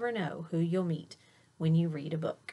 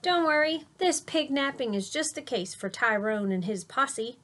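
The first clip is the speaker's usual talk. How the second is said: eager boast; 4 semitones higher than usual. Acted. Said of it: "I said".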